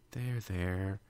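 soothing there there. Acted. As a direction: hush her like a scared child. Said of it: "Fluttershy pulled Twilight's face into her chest".

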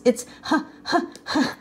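laugh-gasp the name out; gasping laughter. Acted. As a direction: rhino finally wheezing out his name. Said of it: "gasped the rhinoceros".

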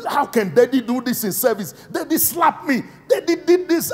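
put-on high, rising childish complaint; whiny angry son. Pastor mimicking his angry son complaining. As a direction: whine it like a slapped child. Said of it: "he gets angry. Very angry".

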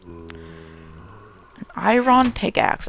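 very low, slowed-down mock amazement; mock awe. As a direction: drag it out deep like a movie trailer.

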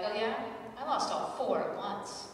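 gloating one-upmanship, ending in a sung I win; smug grieving parent. Pretend. To other grieving parents, gloating in a mock sing-song. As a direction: brag about it like a prize. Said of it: "I can be like".

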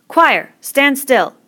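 loud, high, drawn-out order; shouted command. A narrator's reading. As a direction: shout the boys to a standstill. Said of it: "The tall boy shouted at them".

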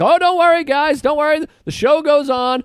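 lightly voiced old man insisting the show goes on; plucky old bird handler. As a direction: cheerfully pretend all's fine while bleeding. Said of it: "And he's like".

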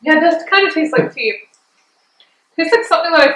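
speaking between bites of freezie; slightly wet mouth from ice pop; mouth cold after eating. Real, not acted. Seen 0: Speaker talks holding freezie pop at chin, sucking it just before.

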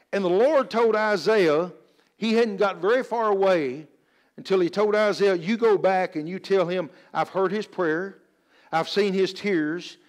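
emphatic, deliberate pulpit delivery; preaching. Real, not acted. Preacher telling church of Hezekiah's answered prayer, emphatic preaching.

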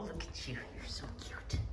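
whispered softly to the kitten. Real, not acted. Owner whispering to her cat, whispered coo. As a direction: breathe the words out, no voice.

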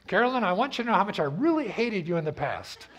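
sarcastic sorry that still blames her; mock grudging apology. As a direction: sell the fake apology that reopens the fight. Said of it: "the way you say it".

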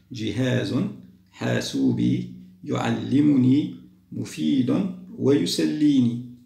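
words drawn out syllable by syllable; teacher listing words to arrange; slow word list. Shown as a demonstration. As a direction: read each word slowly for the class. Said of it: "نعيد قاعدة الكلمات".

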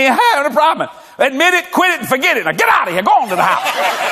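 half-shouted, brusque brush-off with a laugh; blunt mock counsel. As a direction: hustle them out the door, bossy and amused. Blunt pastor counseling someone, acted.

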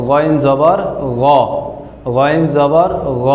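"গইন জবর গ" with throaty Arabic gh, ending in rounded o; Arabic Ghain reading. Shown as a demonstration. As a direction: spell "গইন জবর গ" deliberately, final "গ" a full ghaw. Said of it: "তখন উচ্চারণ হবে".

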